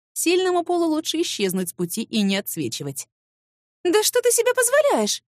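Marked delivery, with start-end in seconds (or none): 3.8-5.2 much higher and louder, offended; outraged gasp. Acted. Secretary wronged by the rival, outraged and loud. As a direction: hurl it back, honour insulted. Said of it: "Я ахнула и натурально оскорбилась".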